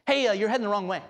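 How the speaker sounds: easy, friendly heads-up; gentle correction. Shown as a demonstration. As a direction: nudge them kindly back on track. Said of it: "the first one, it's kinda like saying".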